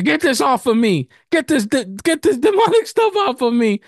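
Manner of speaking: high-pitched, frantic retold plea; stumbling, high-pitched mock protest; urgent protest. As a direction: act out a kid desperate to be rid of it. Child protests to teacher about costume.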